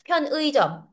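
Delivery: 편의점 with a full ui, pyeon-ui-jeom; hard unlinked pronunciation. Shown as a demonstration. Teacher shows why it is hard to pronounce, unlinked. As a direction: keep 편 apart from a full 의 in 편의점. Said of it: "it's hard to pronounce".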